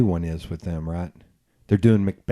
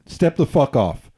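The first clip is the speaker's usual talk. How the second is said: firm warning; 3 semitones higher, 5 dB louder than usual. Retold or imitated. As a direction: tell off an intruder, mildly acted. Retold warning to intruding dude.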